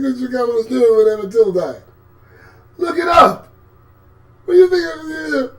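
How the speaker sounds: high, loud cry of outrage; high pleading cry; outraged yell. Real, not acted. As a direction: yell it at the screen. Outraged demand.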